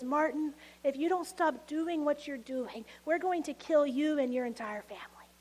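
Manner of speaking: quiet threat that sinks into a whisper; menacing phone threat. Retold or imitated. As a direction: hush it like a threatening anonymous caller. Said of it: "a voice on the other end that says".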